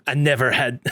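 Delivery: slow, laughing Scottish accent. Shown as a demonstration. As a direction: try a Scottish accent and crack up. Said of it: "in a Scottish accent".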